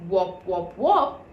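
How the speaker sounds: low muffled wop rising; hollow jug voice. A narrator's reading. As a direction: through the jug. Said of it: "a voice that sounded exactly like".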